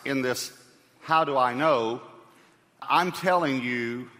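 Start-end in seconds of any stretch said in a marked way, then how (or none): 1.0-2.0 "I" given extra weight, the question said firmly; stress on I. Shown as a demonstration. Preacher introducing his personal testimony to the congregation, stress on "I". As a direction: lean on the word "I" in the question. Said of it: "I want to emphasize the word I".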